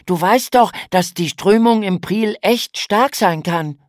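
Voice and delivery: höher und lauter, ernst warnend; besorgter großer Bruder. A narrator's reading. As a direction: wie ein besorgter Bruder erklären. Lukas warnt weiter. (großer Bruder warnt die Schwester, höher und lauter)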